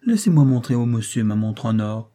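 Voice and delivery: put-on a boy excited to show his watch; child's eager cry. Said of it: "s'écria George".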